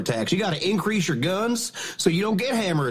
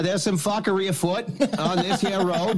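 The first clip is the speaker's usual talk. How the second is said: put-on Irish accent; 3 semitones higher than usual. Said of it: "this counts as an Irish accent".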